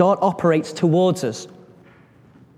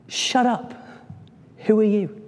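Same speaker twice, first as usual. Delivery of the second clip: acted indignant retort; 5 semitones higher than usual. David answering Goliath back.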